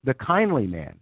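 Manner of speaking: storyteller reading fan fiction; story narration. A narrator's reading. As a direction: narrate it like a fantasy tale. Reads fan fiction aloud.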